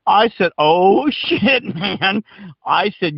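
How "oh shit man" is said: high, drawn-out mock dismay; retold shock. Storyteller realizes he cussed out an officer, dismayed. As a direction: react as if caught, pitch jumping up.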